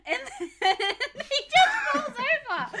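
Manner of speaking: laughing. Real, not acted. Laughing at the actor's fall.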